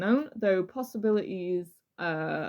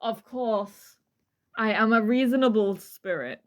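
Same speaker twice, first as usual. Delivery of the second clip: dramatic reading; 5 dB louder than usual. Acted. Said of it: "This is a dramatic reading".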